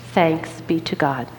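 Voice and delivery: congregation saying it together; whole room responds together, falling; many voices in unison. Real, not acted. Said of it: "read it with me in one voice".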